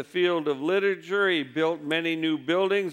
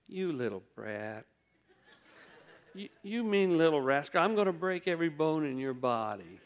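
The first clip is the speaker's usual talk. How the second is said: soft and gentle while saying harsh words; kind, gentle voice; 5 dB quieter than usual. Shown as a demonstration. Preacher showing the congregation a gentle voice on harsh words. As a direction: coo the threat softly, like soothing a toddler. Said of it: "with a kind, gentle voice saying".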